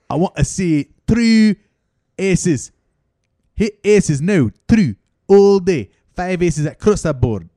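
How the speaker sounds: mock coach orders. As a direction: push the player hard. Coach demands.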